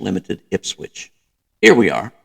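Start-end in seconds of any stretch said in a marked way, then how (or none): 1.6-2.1 much louder, triumphant exclamation. A narrator's reading. Officer finding the spare fuses, triumphant. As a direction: announce the find like a small victory. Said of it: "he said triumphantly".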